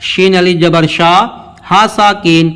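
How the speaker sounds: measured letter-by-letter recitation; teacher's spelling drill with held long vowels; spelling aloud. Shown as a demonstration. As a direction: spell it out for learners, then land on the word. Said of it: "ہجے کرتے ہوئے پڑھتے ہیں".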